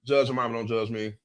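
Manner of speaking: talking while chewing gum. Real, not acted. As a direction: chew gum as you speak. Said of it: "I got gum in my mouth".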